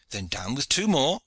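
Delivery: high, loud command; shouted order. A narrator's reading. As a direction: shout it up and out to the men. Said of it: "shouted their leader".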